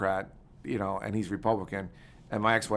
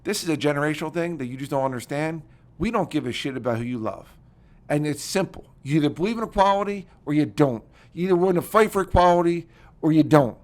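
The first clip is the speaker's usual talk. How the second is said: heated retold comeback, higher and louder; Irish temper up; 3 semitones higher, 5 dB louder than usual. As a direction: retell standing your ground, building in force. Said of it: "I got my Irish up".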